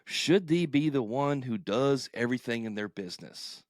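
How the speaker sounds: booming game show host intro; announcer voice. Pretend. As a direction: hype it up like a TV announcer. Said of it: "my, uh, announcer voice there".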